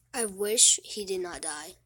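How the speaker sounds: hushed, slow, close to tears; real whispered grief; tearful whisper. Real, not acted. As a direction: barely get the words out through tears. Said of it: "I'm tearing up".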